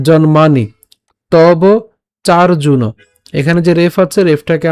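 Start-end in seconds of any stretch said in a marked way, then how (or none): 0.1-2.8 "জন্মানি" as jon-maa-ni, firm and measured; "চার্জুন" with the r sounded before "juno"; pronunciation demo. Shown as a demonstration. Teacher demonstrates the words, deliberate pronunciation. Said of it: "তাহলে উচ্চারণটা কেমন হচ্ছে?".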